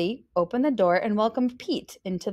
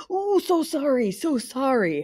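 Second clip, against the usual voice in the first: apologetic; 7 semitones higher than usual. A narrator's reading. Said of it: "Howard apologized".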